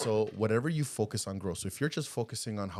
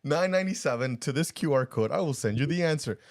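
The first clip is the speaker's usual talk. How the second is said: mock sales pitch; 5 semitones higher, 4 dB louder than usual. Joking sales pitch for the answer.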